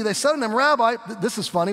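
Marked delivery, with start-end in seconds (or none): 0.5-1.0 snarky. Retold or imitated. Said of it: "watch their attitudes".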